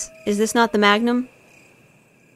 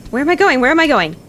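louder, higher frantic question; 4 semitones higher, 5 dB louder, faster than usual. Real, not acted. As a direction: ask in a rush of panic. Lost while chased.

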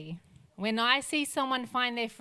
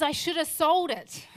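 weeping regret; 5 semitones higher, 5 dB louder than usual. Retold or imitated. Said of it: "and he says".

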